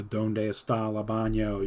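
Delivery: slow, unrolled American-accented Spanish; white-guy Spanish. Shown as a demonstration. Showing how not to say Spanish in class, American accent. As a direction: read the Spanish with no accent at all, slowly. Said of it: "Can't be a white guy just being like".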